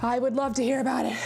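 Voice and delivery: a little out of breath on the elliptical; winded. Real, not acted. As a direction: talk while working out. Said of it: "I'm getting winded now".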